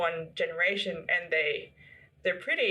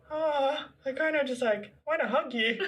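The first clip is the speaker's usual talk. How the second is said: higher, gushing mock coo; fond cooing; 6 semitones higher than usual. Fan gushing over a shy tennis star, playful fond cooing. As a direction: coo it fondly, ending in a laugh.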